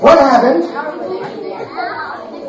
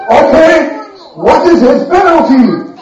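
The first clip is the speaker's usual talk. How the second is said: angry king; 5 semitones higher than usual. Retold or imitated. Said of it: "The king got angry and said".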